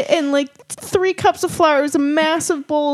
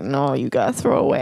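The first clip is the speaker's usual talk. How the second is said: mom's voice; 12 semitones lower, 3 dB quieter than usual. Retold or imitated. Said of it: "She's like".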